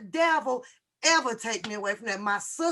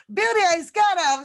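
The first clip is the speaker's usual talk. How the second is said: higher, louder and faster repeat of the brag; imitating Beauty, bigger; 7 semitones higher, 7 dB louder, faster than usual. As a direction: push the mock boast up a notch. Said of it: "she said".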